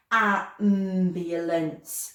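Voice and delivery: Ambulance very slow, every syllable stretched; slowed right down. Shown as a demonstration. Teacher slowing a word for the class: very slow. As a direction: drag Ambulance out to hear the first sound. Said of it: "We have to slow that one right down".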